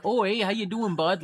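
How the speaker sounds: put-on light stereotypical Canadian accent; a friendly mock Canadian greeting. Mocking the stereotypical Toronto accent idea, light Canadian accent. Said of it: "the stereotypical".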